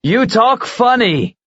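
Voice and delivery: a touch of bewilderment; puzzled eagle. Acted.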